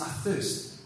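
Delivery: breathy whispered words of a dying man; hushed dying whisper. Retold or imitated. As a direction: whisper it as if from the cross. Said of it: "he says".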